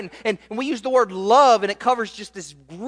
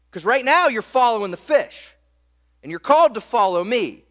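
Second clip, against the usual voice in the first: faster, louder, pressing; urgent challenge; 4 semitones higher, 5 dB louder, faster than usual. Acted. Jesus challenging Peter to follow him, urgent and louder. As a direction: push the call home.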